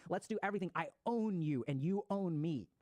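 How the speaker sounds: cling on and don't let go; possessive lover. Retold or imitated. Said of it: "It is".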